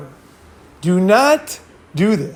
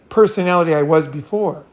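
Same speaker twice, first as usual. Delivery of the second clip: ordinary delivery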